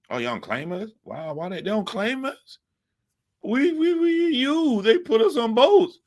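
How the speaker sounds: high, disbelieving outcry rising to a yell; can't believe what he's hearing; incredulous. Real, not acted. Hurt by Africans' rejection, high and disbelieving. Reacts to being disowned.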